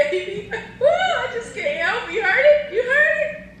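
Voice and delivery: high excited laughing squeal. Real, not acted. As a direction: laugh it out, giddy and loud.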